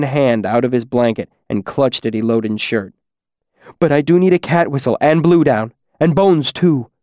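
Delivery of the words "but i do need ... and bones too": urgent. Acted. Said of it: "His tone was urgent".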